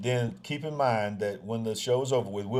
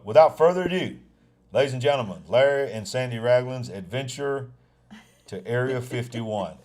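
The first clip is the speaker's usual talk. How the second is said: show announcer. Pretend. Mock-announces their own adventure video.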